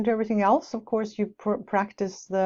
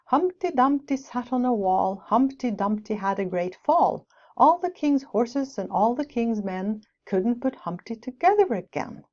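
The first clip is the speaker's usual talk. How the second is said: rhythmic nursery rhyme reading; rhyme recitation. Shown as a demonstration. Teacher reciting a rhyme to the class, rhythmic. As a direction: recite it with a bouncy beat.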